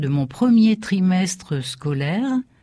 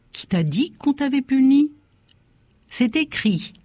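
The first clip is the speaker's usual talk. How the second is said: astonished father; 8 semitones higher than usual. Acted. Father questions boy, stunned.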